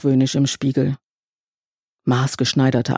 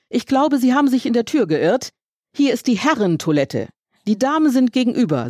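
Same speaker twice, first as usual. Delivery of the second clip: polite and raised; 8 semitones higher than usual. A narrator's reading. Narrator politely escorts lady out.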